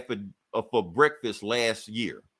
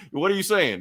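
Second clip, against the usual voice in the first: laughing yell; 8 semitones higher, 4 dB louder than usual. Retold or imitated. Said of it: "Thor yells at him".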